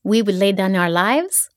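lightly voiced Israeli accent for a soldier; a hint of an Israeli soldier's accent, earnest. Guest voicing the adorable soldier who reassured her, in an Israeli accent. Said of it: "I want you to do the accent".

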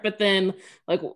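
normal talking voice

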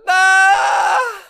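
loud, high mock scream; imitated scream. Mimicking Abby screaming out loud, high mock scream. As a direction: let out one long high shriek. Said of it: "she screams out loud".

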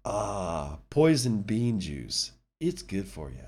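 after a sip of coffee; while sipping a drink. Real, not acted. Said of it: "Excuse me while I drink some coffee".

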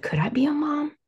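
half-whispered question, lifting high at the end; hushed, tentative self-questioning; whispered wondering. Retold or imitated. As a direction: whisper it as a private thought. Retold private wondering, whispered.

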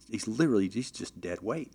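usual speaking voice

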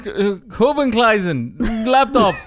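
slow, halting fake German accent; badly faked German, feeling for the words; mock German accent. Podcaster attempts the laptop man on request, mock German accent. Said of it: "Do it in a German accent then".

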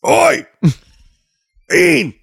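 mock calling out. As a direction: play the nagging mom, slowly. Calling as if Ian's mom.

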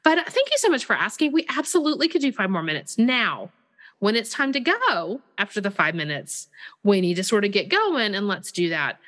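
joyful yes. Shown as a demonstration. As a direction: say yes gladly and fast. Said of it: "give them a joyful yes".

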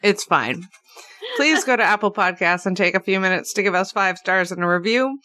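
mouth full. Real, not acted. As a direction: still chewing while talking. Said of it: "He's still chewing".

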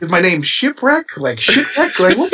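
confused question through laughter; puzzled and giggling at the name; laughing confusion. Retold or imitated. Rookie asks about his new name, laughing. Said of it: "I'm like".

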